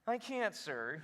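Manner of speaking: lightly voiced whining man; mild mock helpless complaint; whiner. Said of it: "That's how he said it".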